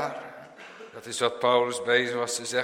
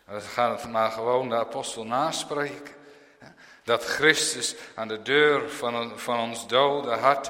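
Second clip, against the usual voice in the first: ordinary talk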